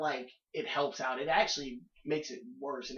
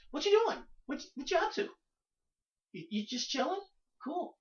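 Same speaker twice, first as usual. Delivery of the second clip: mock clingy guy; 13 semitones higher than usual. Mocking clingy caller.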